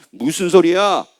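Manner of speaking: acted defiance, rising to an emphatic finish; resolute believer. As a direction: rebuff the tempter with growing force. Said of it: "마귀하고 연합을 안 한 사람은".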